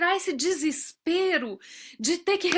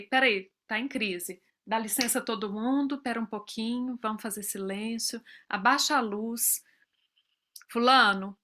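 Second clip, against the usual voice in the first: calm, hushed soothing; 3 semitones lower, 3 dB quieter than usual. Retold or imitated. Mother calming child in crisis.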